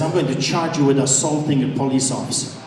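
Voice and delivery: officer threatening the pastor with a charge; officer's threat. Retold or imitated. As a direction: mutter the charge coldly. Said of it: "he turns to me and he says".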